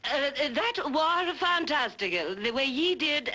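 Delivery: mock hillbilly phrasing, barely changed; trying hillbilly accent. Actress practicing the hillbilly woman's line, awkward hillbilly accent. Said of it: "let me try it".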